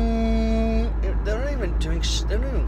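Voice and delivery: stretched-out yell of protest; exasperated shout. Real, not acted. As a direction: call it out long and loud in exasperation. Annoyed call out while driving.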